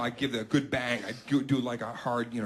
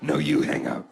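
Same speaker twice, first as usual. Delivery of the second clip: giggly couple's you-hang-up banter; giggly late night call; slower than usual. Pretend. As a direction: play a flirty lovers' phone goodbye. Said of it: "giggly late night call".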